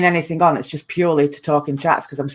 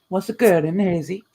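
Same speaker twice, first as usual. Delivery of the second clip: put-on Welsh accent. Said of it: "is that your Welsh accent?".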